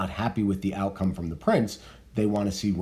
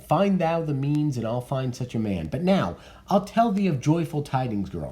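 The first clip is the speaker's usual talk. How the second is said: reading Lady Capulet; 6 semitones higher than usual. Acted.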